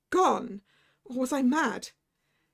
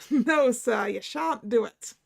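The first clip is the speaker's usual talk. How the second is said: laughing refusal; 3 dB louder, slower than usual. Acted. Irish doctor laughing as he refuses. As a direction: laugh then loud Irish no.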